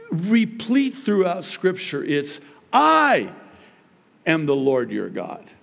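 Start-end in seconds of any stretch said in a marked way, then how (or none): 2.7-5.5 huge emphatic "I" set apart; stress on I. Shown as a demonstration. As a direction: hammer "I", then settle into the phrase. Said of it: "The emphasis is on".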